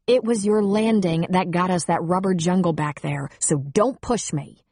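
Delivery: snapped. Acted. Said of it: "she snapped".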